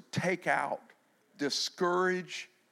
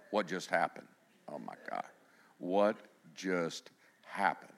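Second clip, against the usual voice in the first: freaked out; 10 semitones lower, 6 dB quieter than usual. Acted. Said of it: "freaked out disciples".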